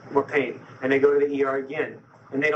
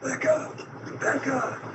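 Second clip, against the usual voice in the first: retold crying out; 8 semitones higher, slower than usual. Man in pain calling his wife at night, retold crying out. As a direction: imitate a feeble, high-pitched cry for help. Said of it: "I'm crying out".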